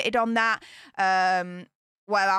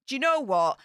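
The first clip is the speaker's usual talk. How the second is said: lightly mock a sulky duchess; mocking Meghan; 4 dB quieter than usual. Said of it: "The British public to be like".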